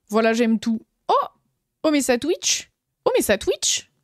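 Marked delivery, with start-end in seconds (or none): 1.1-2.7 higher, bright exclamation; excited. Acted. Streamer cheering as the stream notice pops up. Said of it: "Ah, tout à fait, ça Twitch". 3.0-3.9 much higher squeal of joy; squeaky. Acted. Streamer squealing the catchphrase to chat. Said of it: "Ah, tout à fait, ça Twitch".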